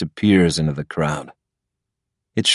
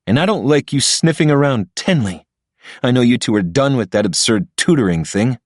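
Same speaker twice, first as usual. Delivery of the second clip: higher, lightly voiced threatening boyfriend; jealous rival; 5 semitones higher than usual. Patrick threatening Ilya over Tenley, a hint of jealous bully. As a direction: warn him off your girl.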